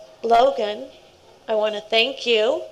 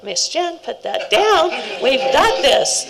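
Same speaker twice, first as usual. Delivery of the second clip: Miss Jen, put that down, with a laughing lift; insistent scout, laughing; 3 semitones higher, 3 dB louder than usual. Retold or imitated. Scout tells Miss Jen to put it down, laughing insistence. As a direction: play the eager scout taking the load off her, half laughing.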